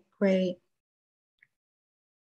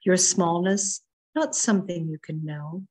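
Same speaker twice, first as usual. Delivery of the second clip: measured, expressive reading of a poem with long pauses; poetry reading. Acted. Poet reading her sea poem to the online group, measured and expressive. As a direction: let each line land, savouring the images.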